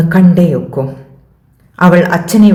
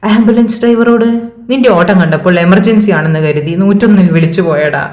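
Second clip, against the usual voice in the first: sheepish fluster; 4 semitones higher than usual. Acted. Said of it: "നിന്ന് പരുങ്ങി പറയുന്നവനെ".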